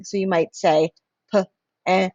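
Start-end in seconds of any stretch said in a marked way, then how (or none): 1.3-2.1 robot talk, sounds split apart. Shown as a demonstration. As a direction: segment it like a robot voice. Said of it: "like a robot".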